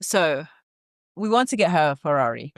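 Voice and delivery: lightly voiced relative buttering her up; mock family caller. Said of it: "I think you should commit to it".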